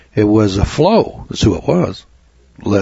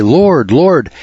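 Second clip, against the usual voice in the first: mock pleading; 6 semitones higher than usual. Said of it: "And he says".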